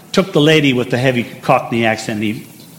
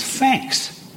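Cockney "thanks" starting with an F; slow Cockney "fanks" for "thanks"; Cockney accent; 13 semitones higher, 5 dB quieter than usual. Shown as a demonstration. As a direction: turn the TH of thanks into F, Cockney style. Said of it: "becomes an F".

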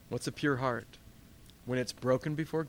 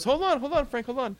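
much higher, loud call to stop; Peter halting; 11 semitones higher, 5 dB louder than usual. Acted. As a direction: pull Frank up short. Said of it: "he stops and he goes".

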